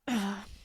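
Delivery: trembling sigh holding back tears; sigh, on the edge of crying; shaky sigh. Real, not acted. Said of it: "I'm trying not to cry right now".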